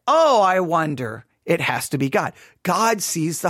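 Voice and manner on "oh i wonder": slow, drawn-out feigned puzzlement; mock wondering. Preacher asking which one is accurate, mock wondering. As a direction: pretend you can't guess the obvious answer. Answers own obvious question ironically.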